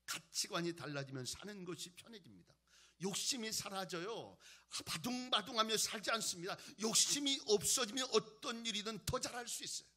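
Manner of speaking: emphatic pulpit proclamation; forceful preaching. Real, not acted. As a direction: press each point home to the congregation.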